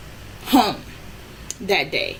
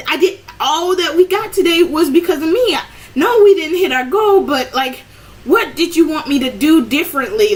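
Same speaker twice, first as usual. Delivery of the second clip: defensive protest; 4 semitones higher, 3 dB louder than usual. Retold or imitated. Defending herself to boss.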